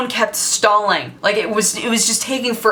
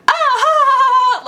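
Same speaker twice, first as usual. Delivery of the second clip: high loud giggle, way up in pitch; giggling girl; 5 dB louder than usual. Retold or imitated. Girl on the bus giggling at the dealer, high and loud. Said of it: "She was like".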